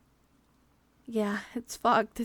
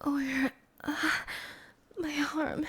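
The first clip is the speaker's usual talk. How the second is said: slow, faint whisper; groggy hushed question; dazed whisper; 3 semitones higher, 7 dB quieter, slower than usual. Acted. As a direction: murmur as if just coming round. Waking up injured, disoriented.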